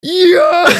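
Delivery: loud, high mock yell; hyped-up retold shout; popping off. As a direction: imitate a guy losing it with excitement. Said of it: "He pops the fuck off".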